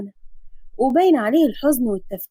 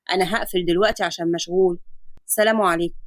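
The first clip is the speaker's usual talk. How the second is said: a lower, steady doctor's voice; calm doctor; 5 semitones lower than usual. Acted. Adam explaining the X-ray to his patient, calm lower doctor voice. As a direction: reassure the patient like a calm physician.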